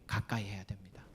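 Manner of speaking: urgent whispered plea to the congregation; sudden whisper. Real, not acted. Preacher urging the congregation to stay close, whispered.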